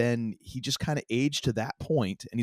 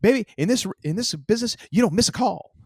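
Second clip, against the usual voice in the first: bad put-on voice, very high, loud, rough; 10 semitones higher, 6 dB louder than usual. Retelling a phone call story, answering the caller in a very poor Jimmy Hart impression. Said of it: "I did a very poor Jimmy Hart impression".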